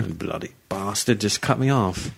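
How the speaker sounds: slow British driver's grumble; British accent. Acted. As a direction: curse slowly in a British accent. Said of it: "you just go into a British accent".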